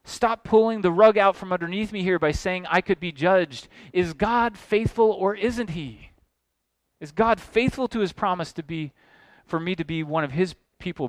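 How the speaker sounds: indignant objector. Acted. Objector pressing his complaint.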